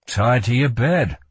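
flat statement of fact; matter-of-fact. Acted. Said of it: "said Kell matter-of-factly".

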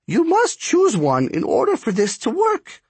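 put-on high-pitched, demanding old-world taskmaster; imperious spark striker. A narrator's reading. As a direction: insist in a high, commanding voice.

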